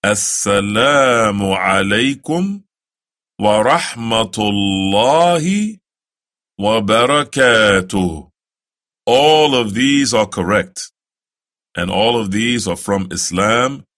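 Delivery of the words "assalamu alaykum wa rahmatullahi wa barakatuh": slow, careful Arabic greeting; the closing salaam, slow; slow recitation. Shown as a demonstration. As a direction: recite it slowly for the learner. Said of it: "the same thing".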